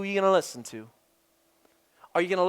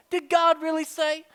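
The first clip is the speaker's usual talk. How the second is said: higher, insinuating inner voice; tempter's voice; 5 semitones higher than usual. Acted. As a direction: whisper doubt like a little voice inside. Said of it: "you hear a little voice within you".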